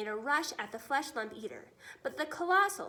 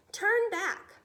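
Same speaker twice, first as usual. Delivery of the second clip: higher, louder command; military order; 7 semitones higher, 7 dB louder than usual. Acted. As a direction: snap the order out. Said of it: "I am a military man".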